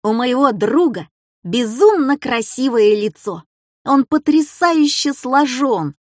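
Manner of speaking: put-on grand, emphatic boy's recital; proud proclamation. A narrator's reading. Петька reading his flattering essay to class, proclaiming proudly. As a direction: proclaim the praise, stretching the big words. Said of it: "и провозгласил".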